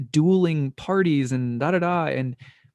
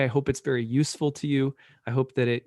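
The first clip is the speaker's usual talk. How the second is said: normal talking voice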